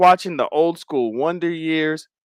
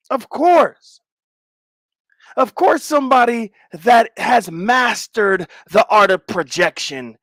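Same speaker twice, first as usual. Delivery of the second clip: higher, drawn-out sarcastic "of course"; sarcastic mock agreement; 5 semitones higher, 3 dB louder than usual. Streamer mocking a chatter who questions him, sarcastic. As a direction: fake agreement dripping with irony.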